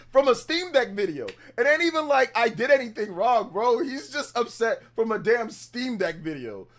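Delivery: exasperated rant. Real, not acted. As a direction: vent frustration at the troll. Ranting about a troll.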